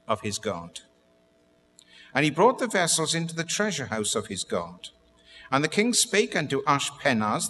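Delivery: measured scripture reading, phrase by phrase; Bible reading aloud. Real, not acted. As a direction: read the chapter out to a congregation, pausing between phrases. Reads Bible chapter aloud.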